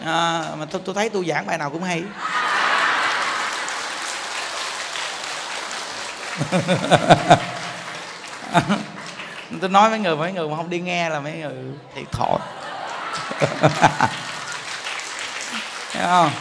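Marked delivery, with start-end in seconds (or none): 2.1-9.6 long real laugh, mostly breath. Real, not acted. Teacher joking that all his talks are good, laughing. Laughs at own self-praise. 12.4-15.9 breathy trailing chuckle; real chuckle after a tease; laughing. Real, not acted. Teacher teasing those who skip his talks, chuckling.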